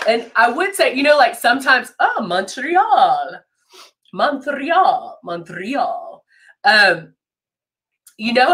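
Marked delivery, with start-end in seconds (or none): 2.3-3.4 "Montreal" drawn out slowly, pitch swooping; playful pronunciation. Retold or imitated. Host playing with how Montreal is said, drawn-out "Montreal". Saying a Canadian city name playfully. 4.1-6.2 "Montreal" with the middle softened to "Mon-th-real"; altered pronunciation. Retold or imitated. Host mimicking a pronunciation, "Montreal" said as "Mon-th-real".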